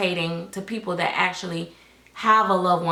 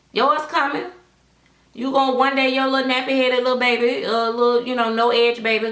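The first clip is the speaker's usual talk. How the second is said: sassy scolding; 6 semitones higher, 3 dB louder than usual. Real, not acted. Scolding rival artist directly.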